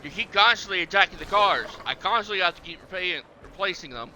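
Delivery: a half-serious telling-off of a T-Rex; mock scolding. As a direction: scold the dinosaur like a naughty dog. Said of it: "Yeah, I'm talking to you".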